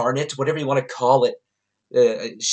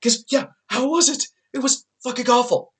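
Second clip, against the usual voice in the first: high, laughing through the words; can't hold back the laugh; giggling echo of the question; 11 semitones higher, 3 dB louder than usual. Retold or imitated. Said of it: "I start laughing".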